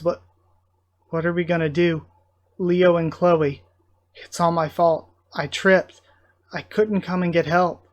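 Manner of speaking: lifted, mildly anguished worry; distressed. Acted. Crew member blaming self for Leo and Chloe, distressed. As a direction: blame yourself, halting between phrases.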